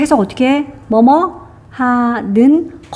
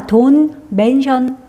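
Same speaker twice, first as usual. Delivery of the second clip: slow reading; much slower than usual. Shown as a demonstration. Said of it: "그거에 대해서 말하지 마".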